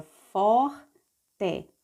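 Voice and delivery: "forte" split slowly as for, te; measured teacher's reading of "forte"; syllable by syllable. Shown as a demonstration. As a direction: sound out "forte" with a gap between syllables. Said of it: "vamos ler passo a passo".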